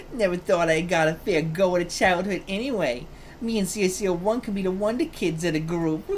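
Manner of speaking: lightly put-on child character voice; a half-successful stab at a child hero's voice; attempted character voice. Voicing the hero turned child, struggling with the voice. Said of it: "I cannot do your voice anymore".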